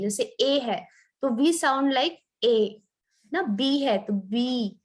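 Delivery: slow, careful letter names "ए" and "बी"; letter sounds shown. Shown as a demonstration. Teacher showing students how letters sound, slow and careful. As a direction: spell out each letter name slowly for the class. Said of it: "हम उसको बोलते कैसे".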